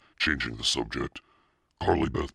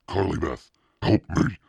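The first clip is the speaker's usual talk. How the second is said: loud, high plea; loud higher pleading call; 4 semitones higher, 6 dB louder than usual. A narrator's reading. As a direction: beg her for help. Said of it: "Sabrina pleaded".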